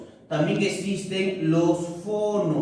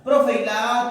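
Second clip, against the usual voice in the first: quick pupil question, higher and louder; eager student voice; 5 semitones higher, 4 dB louder than usual. Acted. Pupil asking the teacher about the A, eager and higher. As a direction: pop the question like a keen pupil.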